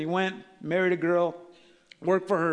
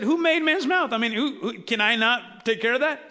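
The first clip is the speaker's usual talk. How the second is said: raised pitch, challenging rhetorical question; mock indignant challenge; 5 semitones higher than usual. The Lord answering Moses' excuse that he can't, indignant challenge. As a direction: push back on the excuse, voice lifted high.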